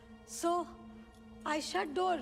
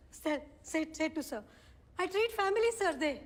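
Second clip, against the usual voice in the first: broken, begging the judge in halting English; desperate pleading. Acted. Mother begging the judge to return her children, desperate. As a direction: plead for your children as if your life depends on it.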